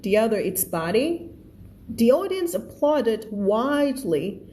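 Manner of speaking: very slow, careful reading; slow read-aloud. Shown as a demonstration. Teacher reading the story line to her class, very slow. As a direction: read it word by word for learners. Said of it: "teacher reads passage slowly".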